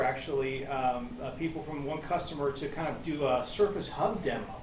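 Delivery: ordinary delivery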